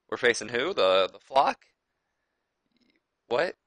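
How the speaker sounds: rising, incredulous questions; hammed-up shock at the opponents; mock disbelief. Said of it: "is now just like".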